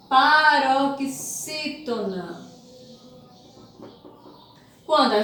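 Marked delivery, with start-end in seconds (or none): 0.1-2.4 paroxítona very slow, each part stretched; syllable by syllable. Shown as a demonstration. Teacher introducing a term to pupils, paroxítona slowly sounded out. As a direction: draw out paroxítona piece by piece.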